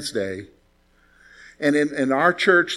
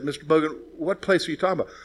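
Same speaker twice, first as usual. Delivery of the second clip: dumbfounded; 5 dB quieter, faster than usual. Retold or imitated. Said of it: "looked at him dumbfounded".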